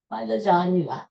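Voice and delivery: "lasagna" in a self-admitted poor fake Italian accent; bad fake Italian accent. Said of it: "I can't do good fake Italian accent".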